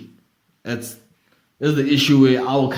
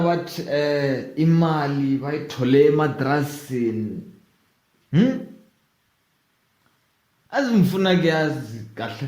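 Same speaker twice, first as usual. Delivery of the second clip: put-on Zulu accent. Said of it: "sorry for the bad fucking Zulu accent".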